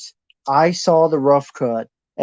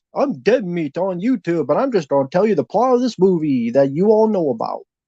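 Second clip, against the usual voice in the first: put-on radio broadcaster voice; 3 semitones higher than usual. Complaining that an eighty-dollar course copies a YouTube channel: fake radio voice as Dead Meat. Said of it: "But fake radio voice".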